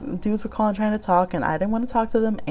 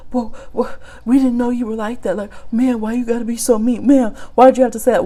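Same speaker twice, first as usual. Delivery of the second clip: stuttering guys; 3 semitones higher, 5 dB louder than usual. Retold or imitated. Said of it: "stuttering around like".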